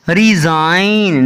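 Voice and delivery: रिजाइन drawn out slowly with no G; silent G. Shown as a demonstration. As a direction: model रिजाइन slowly, straight to the N. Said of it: "इसको रिजाइन पढ़ना है".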